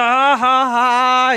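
imitated hearty ha-ha-ha; mock chipper. Mister Chipper laughs on the trail, mock chipper. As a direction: fake a jolly, spelled-out laugh. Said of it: "He's Mister Chipper".

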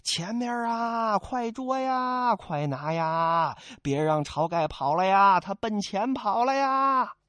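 slow, stretched call to the troops; hollering slowly after a fleeing man; drawn-out mock alarm, each cry stretched long. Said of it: "叫声".

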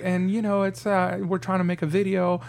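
politely sweet put-on voice; debutante voice. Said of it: "That's your debutante voice".

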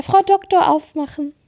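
put-on high, loud little-boy demand; demanding child. Mother imitating her son asking the doctor to open the sweets, high child voice. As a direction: ask bossily like a toddler. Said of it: "und dann sagt er".

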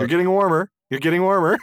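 high, loud singsong tease; teasing ring voice. Pretend. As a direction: taunt them like a hide-and-seek game. Ring voice, higher louder.

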